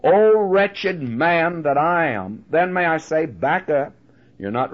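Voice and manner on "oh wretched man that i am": crying out in anguish. Pretend. Preacher crying out the sinner's lament. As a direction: cry it out like a man at the end of himself. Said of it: "ready to cry out".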